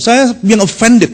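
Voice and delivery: draws out being offended slowly; slow, mock indignant. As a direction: spell out the offence word by word. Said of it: "Bulenya marah".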